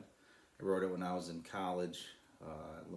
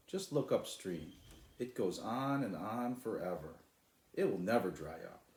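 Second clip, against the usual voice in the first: put-on a boy stubbornly pointing upstream; mock-insistent shout; 3 semitones higher, 6 dB louder than usual. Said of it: "shouted Sly".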